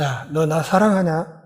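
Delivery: Jesus quietly asks Peter, tender question; gentle question. Acted.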